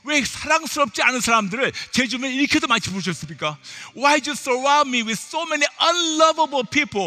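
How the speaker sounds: exasperated prayer building in force, then dropping; acted-out indignant pleading, bilingual and insistent; protesting to God. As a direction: wail a mock complaint to the Lord. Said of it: "그렇게 여쭤봤죠".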